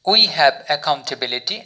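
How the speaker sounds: very slow, word by word English; slow example sentence. Shown as a demonstration. Teacher reads example sentence to learners, very slowly. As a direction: spell out each word of the model sentence. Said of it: "এই sentence use করতে হবে".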